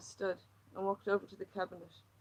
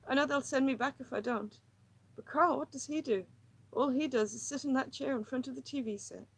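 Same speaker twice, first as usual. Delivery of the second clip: higher, tense, pleading woman; distressed woman; 5 semitones higher, 9 dB louder than usual. Acted. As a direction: pour out her misery, near breaking. Lily's agitated monologue.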